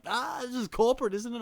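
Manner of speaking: mock Kiwi bloke joking about corporate seats; delighted Kiwi accent. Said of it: "They got the accent".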